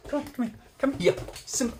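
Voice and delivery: high, insistent calling; short commands to a pet; calling a dog. Real, not acted.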